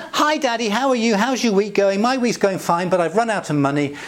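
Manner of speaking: chatty daughter running through her needs; a daughter on the phone lightly asking Daddy for money. Retold or imitated. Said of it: "what she has just said is".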